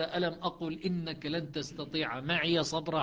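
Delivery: slow recited verse; Quran recitation. Shown as a demonstration. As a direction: recite it slowly, chant style. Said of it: "قال".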